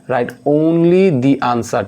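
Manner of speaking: very slow, word-by-word exam instructions; teacher reading instructions to class; slow dictation reading. Acted. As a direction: read the instruction out slowly.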